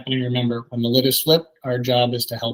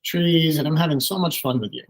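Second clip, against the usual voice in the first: bright, higher pitched gushing over the day; cheerful delight at the park; 4 semitones higher than usual. Retold or imitated. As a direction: share your joy with the kids, like a mild show of wonder. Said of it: "at the park with my kids and just say".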